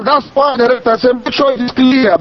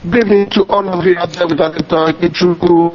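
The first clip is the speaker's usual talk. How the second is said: muffled phone line; phone speaker; 3 semitones lower than usual. Real, not acted. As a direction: caller on a bad line. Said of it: "Your line is not clear".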